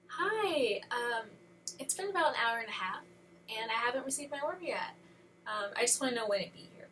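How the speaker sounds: mildly put-on polite caller voice; very civil. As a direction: imitate yourself being civil on the phone, a high 'Hi' to open. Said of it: "I'm very civil. I talk like this".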